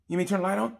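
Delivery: high, careful asking; coaxing the sulking rider to turn the light on, high and careful. Retold or imitated.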